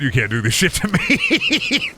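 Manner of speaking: high drawn-out whine breaking into laughter; playful wail of protest; mock despair. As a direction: whine it slowly, voice climbing very high. Complains about catchy song, mock despair.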